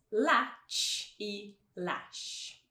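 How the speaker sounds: very slow "Latch e lash", ending CH then SH; tch against sh. Shown as a demonstration. Teacher contrasting two sounds, "Latch e lash" drawn out. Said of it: "vamos colocar esses dois sons".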